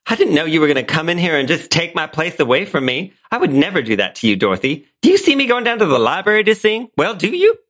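high, indignant Southern belle; a proud belle, hurt and demanding; Blanche Devereaux. Acted. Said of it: "In the role of Blanche Devereaux".

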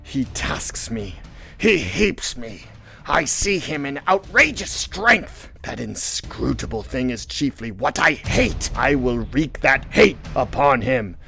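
slow, brooding hatred building; slow, intense vow of revenge; Ahab. Acted. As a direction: let hatred swell word by word. Ahab declaring hatred of whale.

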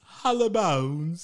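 laughing echo. Real, not acted. Echoing the joke, amused.

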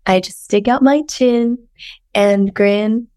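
hoarse, sultry sick voice. Acted. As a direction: read lyrics in a sick croak. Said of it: "Here's the lyrics. / enjoy my sick voice".

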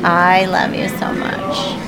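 choked up, voice wavering; holding back tears; tearful goodbye. Real, not acted. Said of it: "don't cry".

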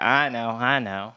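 low, slow, self-satisfied retold aside; knowing acknowledgment. Announcer to laughing auditorium, knowing acknowledgment. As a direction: imitate a comic savoring his laugh. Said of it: "knows the joke's really funny".

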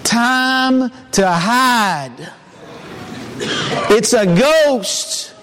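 slow, hushed spooky dread; half-playful ghost scare; mock fright. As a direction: play the scared disciple, drawn out. Imagining disciples' fright at sea.

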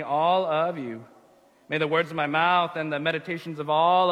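measured, unhurried congregational prayer; spoken prayer. Acted. Pastor leading the congregation in opening prayer, reverent prayer voice. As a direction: pray aloud in deliberate phrases, settling on the Amen.

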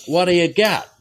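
tough-guy challenge; Brando rebel. Retold or imitated. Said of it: "full Marlon Brando".

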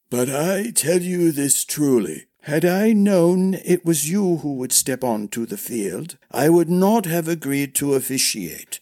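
put-on earnest declaration from an old man; old sword master, earnest. Old master regretting he agreed to officiate, earnest and formal.

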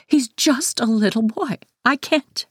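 high, upset mother's voice; tearful mother. A narrator's reading. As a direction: plead high, close to tears. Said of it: "Mom says tearily".

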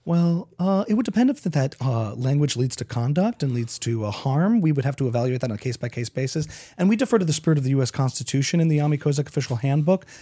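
lightly voiced university president; prim evasive official; snooty voice. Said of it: "That was just a snooty voice".

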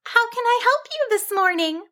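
high, stuttering sheep voice; nervous little voice catching on the first word; nervous wobble. A narrator's reading. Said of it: "managed to nervously wobble out".

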